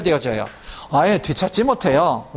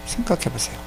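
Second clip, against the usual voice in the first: soft repeat; 6 dB quieter than usual. Shown as a demonstration.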